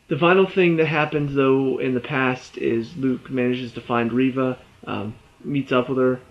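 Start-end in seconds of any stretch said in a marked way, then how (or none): 4.8-6.2 mid-yawn, words stretched open. Real, not acted. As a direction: talk through a yawn. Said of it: "I don't know why I'm yawning".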